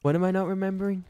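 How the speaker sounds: high, loud and fast what am I not remembering; loud exasperated self voice; exasperated question. Retold or imitated. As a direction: demand it in mock frustration. Repeating the joke.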